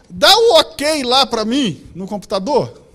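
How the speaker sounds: Raquel's request. Retold or imitated. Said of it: "Raquel virou pra mim ontem e falou assim".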